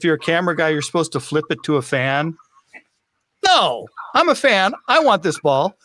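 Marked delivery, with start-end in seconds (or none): 3.5-5.7 emphatic, higher-pitched protest; indignant, insistent retort; defiant refusal. Retold or imitated. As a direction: stand your ground like a stubborn fan. His retort to the unwritten rule.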